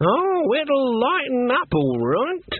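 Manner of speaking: high, slow and menacing; ominous old witch. A narrator's reading. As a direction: say it darkly, full of threat. Granny's ominous reply.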